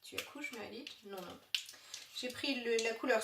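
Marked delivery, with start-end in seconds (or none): 0.0-1.4 quiet aside. Real, not acted. Aside to Malik off camera.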